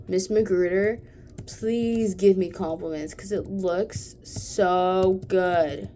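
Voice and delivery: loud, slow, begging for praise; milk it for compliments; excited pleading. Real, not acted. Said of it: "I got a little excited".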